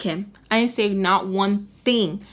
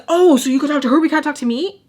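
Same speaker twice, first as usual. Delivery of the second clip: louder, higher imitation of indignation; mock indignant; 6 semitones higher, 6 dB louder, faster than usual. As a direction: throw the accusation back, acting offended. Retells his annoyed confrontation.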